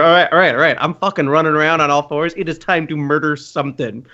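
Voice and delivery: gleeful bloodthirsty beast inner voice; hyped-up Warwick voice. Retold or imitated.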